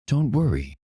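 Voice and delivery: a lightly voiced calm comfort. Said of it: "In a very calm voice".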